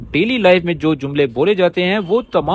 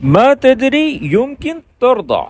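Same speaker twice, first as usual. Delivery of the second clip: slow careful repeat; 7 semitones higher, slower than usual. Shown as a demonstration. Teacher echoing the dialogue clip for learners, slowly. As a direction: say ما تدري يمكن ترضى slowly, every word clear. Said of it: "repeats the played Arabic line".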